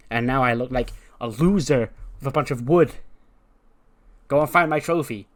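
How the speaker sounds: mock diva tirade, punching key words; indignant diva. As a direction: make a haughty, emphatic demand. Diva rants about stolen trophy.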